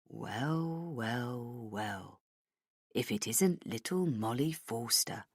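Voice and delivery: Hennessy gloating over the trapped woman; gloating villain. Acted. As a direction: savour each well like a cat.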